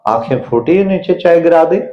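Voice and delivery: sharp, rising scold at the wife; husband scolding wife over spilt tea; angry husband scolding. Retold or imitated. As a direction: snap at her for the spill. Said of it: "number one".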